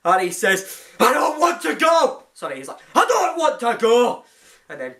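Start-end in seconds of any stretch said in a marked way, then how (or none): 1.0-2.2 lightly voiced tearful Tenth Doctor; a hint of Tennant's pleading; David Tennant impression. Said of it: "that's my impression of David Tennant". 3.0-4.2 light take on Tennant's despairing plea; hint of the Tenth Doctor refusing to leave; David Tennant impression. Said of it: "that's my impression of David Tennant".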